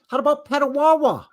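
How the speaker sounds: high, loud Canadian hoser voice with a big eh bud; hammed-up Canadian hoser. Teasing co-host about Canadian places, hammed-up Canadian hoser voice. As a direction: play the over-the-top Canadian buddy.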